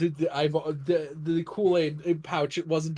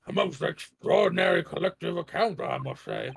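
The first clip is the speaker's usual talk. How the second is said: judge voice. Acted. Judge voice in courtroom game.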